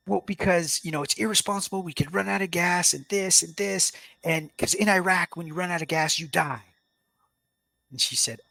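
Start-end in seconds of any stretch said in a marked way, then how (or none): 0.1-6.6 higher-pitched defensive justification; retold upset. Husband explains to his wife why running out of gas upset him, upset. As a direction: reenact being upset, voice pitched up. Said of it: "It, it made me upset".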